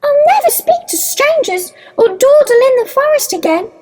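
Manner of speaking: put-on high, tearful child making a promise; sobbing. A narrator's reading. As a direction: keep the acted little-girl sob going, pitched high. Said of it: "sobbed Little Red Riding Hood".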